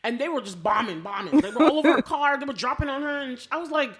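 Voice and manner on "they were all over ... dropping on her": normal talking voice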